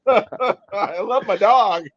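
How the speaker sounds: slow words through real laughter; laughing fondly. Real, not acted. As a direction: laugh it out, slowly. Laughing about dog at prison.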